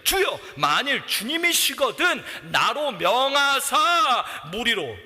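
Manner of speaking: slow earnest shout; bold plea. Acted. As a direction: call out boldly to the Lord. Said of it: "대답하여 이르되".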